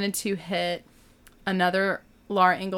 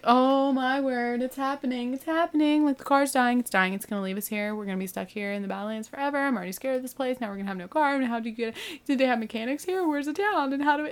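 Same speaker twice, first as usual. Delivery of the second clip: higher, fast, mock panicky rambling; freaking out; 4 semitones higher than usual. Wife fearing the car dies in the Badlands, panicky and rushed. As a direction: spiral into half-joking panic. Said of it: "he sees me freaking out".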